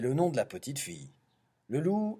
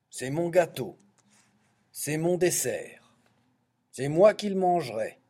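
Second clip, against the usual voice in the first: moderately raised, possessive protest; ogre's roar; 3 semitones higher, 4 dB louder than usual. Acted. Ogre claiming his dessert, mild roar. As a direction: claim it firmly, building louder to the end. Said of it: "rugit-il".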